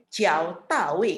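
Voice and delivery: "Ciao Tawe" slowly, modelling the falling fourth tone; teacher's slow tone model of "Ciao Tawe"; fourth-tone demo. Shown as a demonstration. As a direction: draw out "Ciao Tawe" with marked tone swings. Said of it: "nada empat juga, berarti".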